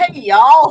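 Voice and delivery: loud, mocking, sarcastic parroting. Reacting to a video greeting, mocking imitation of a "hey y'all" greeting. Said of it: "my commentary is like".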